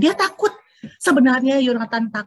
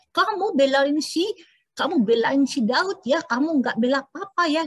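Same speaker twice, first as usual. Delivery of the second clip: angry father; 3 semitones higher than usual. Acted. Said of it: "papanya makin marah".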